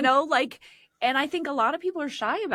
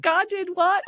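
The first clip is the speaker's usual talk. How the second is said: mock shocked churchgoer; 12 semitones higher than usual. Mock churchgoer laughing wrongly.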